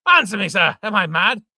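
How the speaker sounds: loud, high demand; loud furious demand; angry shout. Acted. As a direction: bellow the question at him. Enraged father demanding an answer.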